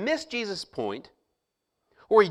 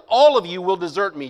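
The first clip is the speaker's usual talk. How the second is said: much louder burst on "all"; emphasised; 7 dB louder than usual. Shown as a demonstration. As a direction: punch "All of you" out. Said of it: "key parts that I'll try to emphasize".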